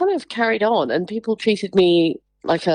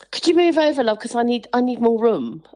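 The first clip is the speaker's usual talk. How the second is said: mock entitled stranger; pushy woman; 3 semitones higher than usual. Imitating a woman wanting the wheelchair space. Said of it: "she said".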